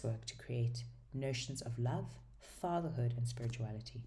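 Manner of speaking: even, measured reading of a book blurb; blurb read-aloud. Acted. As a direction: read the back cover out evenly.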